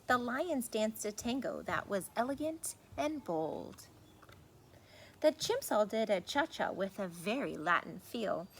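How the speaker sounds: put-on lively storybook reading to kids; reading to children. A narrator's reading. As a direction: read it like a bedtime book for little ones. Reads picture book aloud.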